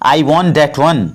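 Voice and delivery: very slow, every word laid out for learners; slow, careful model sentence; slow teaching demo. Shown as a demonstration. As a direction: spell it out slowly for the class. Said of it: "तो इसको English में बोलेंगे".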